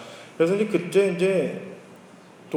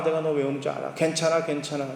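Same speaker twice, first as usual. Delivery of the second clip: softer, hushing father soothing his daughter; tender comfort; 2 semitones lower, 5 dB quieter than usual. Retold or imitated. Father gently soothing his crying daughter, soft. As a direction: hush her gently, it's okay. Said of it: "딸아이가 왜 우는지 아버지가 알잖아요".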